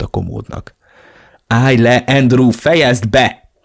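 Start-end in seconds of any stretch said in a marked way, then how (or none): 1.5-3.5 loud, mildly shrieked order; shrieking plea. A narrator's reading. Elena tries to stop her brother, crying out. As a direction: cry out to stop the fight. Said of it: "Visította Elena".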